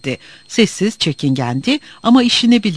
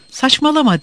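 snapping; 9 semitones higher than usual. A narrator's reading. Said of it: "diye atıldı Murat".

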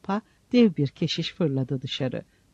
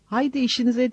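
angry gatekeeper bellows; bellowing; 7 semitones higher than usual. A narrator's reading. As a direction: roar them away from the door. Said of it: "diye böğürdü o ses".

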